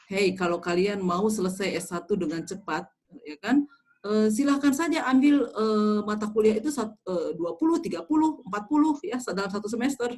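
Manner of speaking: mock-generous invitation, lightly sarcastic; sarcastic jibe. Shown as a demonstration. Lecturer jibes at students taking too many courses, sarcastic. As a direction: goad them with an offer you don't mean. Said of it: "Saya bisa nyindir kepada Anda".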